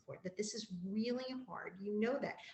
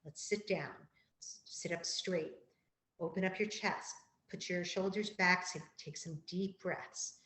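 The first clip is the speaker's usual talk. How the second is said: calm and gentle. Shown as a demonstration. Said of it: "I do this very calmly and gently with children".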